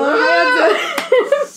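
high, drawn-out laughing shout; bashful, squealed hello breaking into laughter; laughing greeting. Real, not acted. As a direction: call it out through real giggles. Shy guest greets listeners, laughing.

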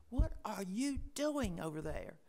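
loud imitation of a neighbor's holler; Richard yelling across. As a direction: call it out loudly across the yard. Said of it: "same voice was yelling across the way".

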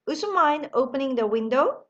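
slow, clear question to the class; slow model question. Shown as a demonstration. Teacher asking the class a slow practice question. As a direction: ask it slowly for learners. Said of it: "제가 질문을 해볼게요".

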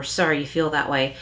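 a cold non-apology; lightly sarcastic sorry you feel that way. Shown as a demonstration. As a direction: blame them while saying sorry. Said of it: "that's sarcastic".

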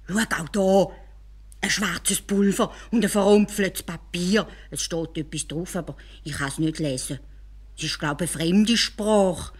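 leicht gespielt, staunend; neugieriger Kalif. Acted. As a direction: Kalif staunt über die Dose. Kalif öffnet neugierig die Dose. (Kalif entdeckt das Pulver, leicht staunend)

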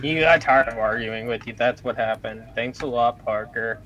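low, soft and even; hushed, mellow delivery; Bob Ross softness. Real, not acted. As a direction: murmur it low and unhurried. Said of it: "Thank you, Bob Ross".

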